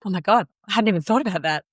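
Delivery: fast, startled oh my God; shocked realisation. Retold or imitated. Woman told labour may not start, startled and fast. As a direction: rush it out as the penny drops.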